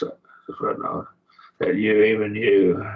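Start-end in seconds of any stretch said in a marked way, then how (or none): 1.6-2.9 "you, even you" with a push on the second "you"; emphatic you. Shown as a demonstration. Teacher stressing "you" for the class: "even you" pressed harder. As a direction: lean hard on "even you". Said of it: "notice that's emphatic".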